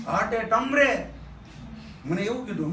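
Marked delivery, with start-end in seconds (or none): 0.1-1.1 retold yell. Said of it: "મોટેથી રાડ નાખી મને".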